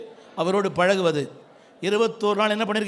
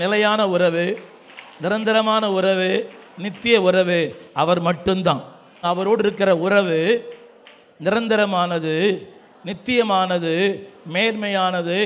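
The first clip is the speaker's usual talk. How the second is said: raised, measured declaration in separate phrases; emphatic preaching; 4 dB louder, slower than usual. Real, not acted. Preacher leading congregation on the lasting bond, emphatic proclamation. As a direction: proclaim it phrase by phrase for the crowd to repeat.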